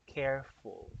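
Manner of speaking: "Careful" in two distinct beats, care, ful; "Careful" measured out as care, ful; split into syllables. Shown as a demonstration. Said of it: "two syllables again".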